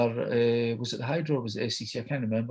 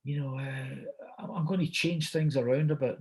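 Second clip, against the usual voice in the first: Al Pacino; 3 semitones higher than usual. Retold or imitated. Star tells the host of changed plans, hesitant imitation. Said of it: "And he went, uh".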